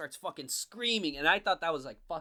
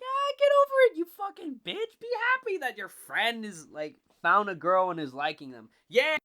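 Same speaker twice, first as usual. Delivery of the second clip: very high, loud, put-on yelling voice; mock yell at character; 7 semitones higher, 9 dB louder than usual. Reacting to whiny Cal while reading, high mocking yell. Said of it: "as I read that part".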